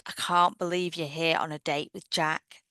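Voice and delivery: put-on excited gushing girl; gushing friend. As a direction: gasp then gush with praise. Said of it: "the other girl goes".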